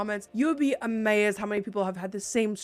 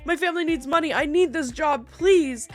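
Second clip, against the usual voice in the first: acting sad; 5 semitones higher, 6 dB louder than usual. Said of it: "I started acting really sad".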